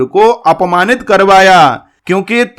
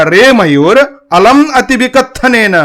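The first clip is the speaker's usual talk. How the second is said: angry cuckoo; 5 semitones higher than usual. Shown as a demonstration. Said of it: "कोयल को गुस्सा आ गया".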